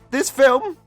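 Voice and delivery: script reading. Real, not acted. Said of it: "You can tell when I'm reading the script".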